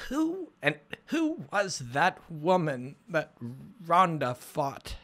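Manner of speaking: slow, light Welsh accent imitating mom. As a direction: mimic his mother's faint Welsh accent. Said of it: "she's got, like, a leftover Welsh accent".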